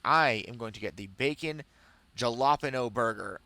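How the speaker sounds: "jalapeno" said with a hard J, as spelled; deliberate mispronunciation. Retold or imitated. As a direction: say "jalapeno" wrong on purpose, with an English J. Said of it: "saying it like that because I know it bothers him".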